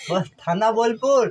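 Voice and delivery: slowly, each word clear. Shown as a demonstration. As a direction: spell it out slowly for a child. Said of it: "তোকে হ্যাঁ বলতে হবে না".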